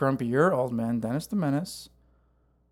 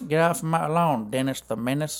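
put-on grumpy old man. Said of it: "you're sitting on your rocking chair".

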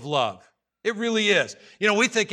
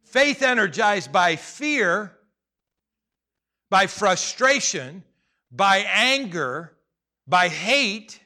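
slow list; 4 dB louder, much slower than usual. Acted. Preacher listing emotions.

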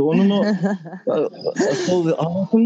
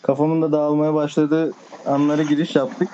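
tired late-night voice; drowsy, winding down; sleepy. Real, not acted. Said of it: "benim artık uykum, uykum geldi".

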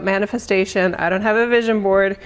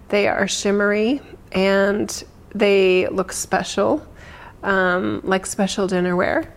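guided meditation. Acted. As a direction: ease them gently into calm. Leads a meditation.

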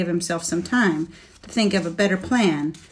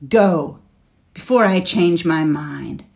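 loud, hissing dragon threat; 5 dB louder than usual. Acted. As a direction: hiss the warning at him. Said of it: "Then he added with a hiss".

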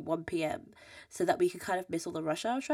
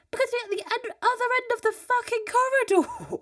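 very high, strained yell; high-pitched, loud, sweary outburst; exasperated shouting; 7 dB louder than usual. Retold or imitated. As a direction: re-enact shouting down a long corridor. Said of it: "Why are you shouting?".

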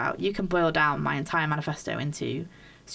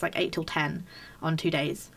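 talking with a whistling nose; 3 dB quieter than usual. Real, not acted. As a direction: air whistling through the nose. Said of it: "I just feel like my nose is whistling".

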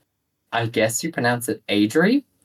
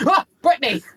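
mock surprised exclamation; 13 semitones higher than usual. Startled by Britney sighting.

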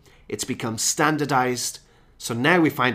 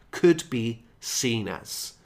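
could be seen as, said slowly and clearly; slow key phrase; slower than usual. Shown as a demonstration. Teacher slowly pointing out the phrase could be seen as. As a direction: spell out the phrase for learners. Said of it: "that's our phrase".

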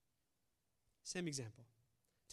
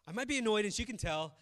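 louder, punching out the admission; emphatic, meaning every word; said with force; 4 semitones higher, 8 dB louder than usual. Shown as a demonstration. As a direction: own it firmly, out loud. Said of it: "I mean it, all right?".

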